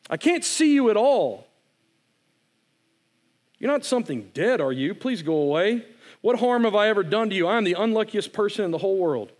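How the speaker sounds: high, pleading, rushed by the end; a scared child begging the dark to leave; frightened pleading boy. Acted. Boy alone in the woods begging the voice, frightened.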